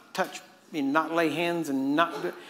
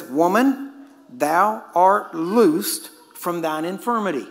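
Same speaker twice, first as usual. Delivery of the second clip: slow, louder pronouncement of healing; Jesus commanding, slow; 6 dB louder, much slower than usual. Retold or imitated. Preacher voicing Jesus healing the woman, slow commanding. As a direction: draw out each word like a command. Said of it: "He says".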